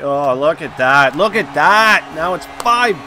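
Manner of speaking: loud, rising disbelief; exasperated outcry. Real, not acted. Opponent scores during the game.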